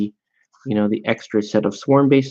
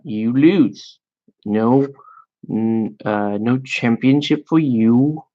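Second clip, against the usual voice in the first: badly faked British power gamer; mock British nitpicker, drawn-out vowels; terrible British accent; slower than usual. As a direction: rule against them in a hokey British accent. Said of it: "some power gamer British guy's like".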